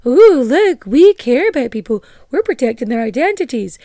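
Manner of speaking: mock self-righteous anthropologist. Host mocking the Messengers' claim to protect islanders, mildly hammed up. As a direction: lightly voice a smug do-gooder.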